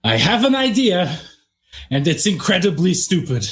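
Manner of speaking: a half yell, rising then settling; mild acted yell. Voltaire yells his idea into the room, mild acted yell. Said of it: "proceeds to yell into the room".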